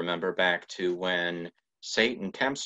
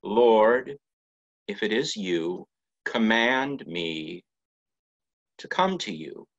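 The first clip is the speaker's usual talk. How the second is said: humble plea; 3 semitones higher than usual. Retold or imitated. Peter on the water, humbly asking his Lord. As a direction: ask it humbly and sincerely. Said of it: "what Peter says is".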